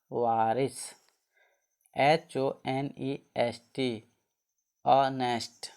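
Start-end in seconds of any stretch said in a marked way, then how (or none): 4.8-5.7 "ऑनेस्ट" starting on the open "o" vowel; silent H. Shown as a demonstration. Teacher models a spelled word, "ऑनेस्ट" with silent H. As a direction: say "ऑनेस्ट" with no h at the front. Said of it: "इसको क्या बोलेंगे?".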